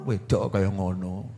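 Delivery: low, slow grumble of an annoyed husband; a hint of a grumpy husband scolding; mock angry husband. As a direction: growl it like a husband losing his temper. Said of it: "Bojo ngamuk".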